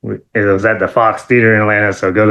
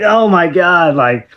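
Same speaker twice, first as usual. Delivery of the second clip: mock heartbreak; 5 semitones higher than usual. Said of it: "I was like".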